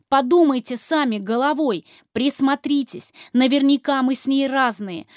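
loud begging shout; desperate pleading. Acted. Frightened woman pleading loudly with husband. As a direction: beg him to listen, almost screaming.

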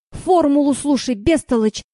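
loud impatient bark. Acted. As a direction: snap at a dimwit. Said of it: "рявкнул он".

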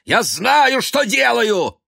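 shrieking high and loud, slowing at the end; furious. A narrator's reading. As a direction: scream it out of control. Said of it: "сказал он яростно".

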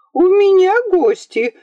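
put-on girl insisting to her mother she has guests; insistent girl. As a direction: keep repeating it, demanding. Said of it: "твердила Ия".

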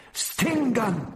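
high, drawn alarm cry; called back. A narrator's reading. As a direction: call out the danger to your comrades. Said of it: "Propilis called back".

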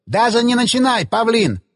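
high-pitched, irritated bark without shouting; snapped. A narrator's reading. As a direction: cut him off crossly. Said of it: "рявкнул Засоль".

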